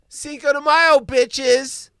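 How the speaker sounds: loud, high gleeful holiday cry; party shout. Real, not acted. Celebrating the days off, a gleeful party shout. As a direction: belt it out like a party toast.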